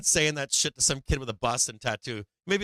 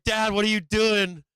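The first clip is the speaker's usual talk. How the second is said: lightly voiced daughter, higher and drawn out; embarrassed daughter; 7 semitones higher, 4 dB louder, slower than usual. Daughter to her dad at the restaurant, mildly imitated embarrassed whine. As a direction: imitate a mortified kid's slow complaint. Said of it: "My daughter's all embarrassed".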